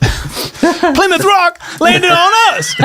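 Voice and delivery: high, slow Shaq voice; Shaq impression. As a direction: drawl it out as Shaq. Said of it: "how he's always saying that?".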